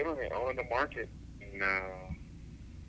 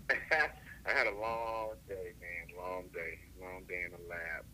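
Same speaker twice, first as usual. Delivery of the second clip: slow, weary after a long day; tired; 2 semitones lower, slower than usual. Real, not acted. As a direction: drag the words out, worn out. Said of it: "I know you're tired".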